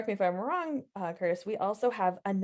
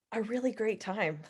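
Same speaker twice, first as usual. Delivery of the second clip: softer, drawn-back sarcasm after a pause; mock-sincere, quietly sarcastic; 4 dB quieter than usual. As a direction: say it with understated sarcasm. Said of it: "I'll say that sarcastically".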